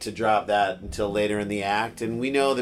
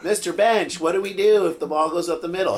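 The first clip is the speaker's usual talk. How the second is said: put-on high kid voice; 7 semitones higher, 5 dB louder than usual. Kid asking coach.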